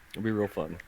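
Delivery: understated irony; sarcastic. Acted. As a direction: say "It'll be real fun" flatly with a sinking "be". GM repeats sarcastically.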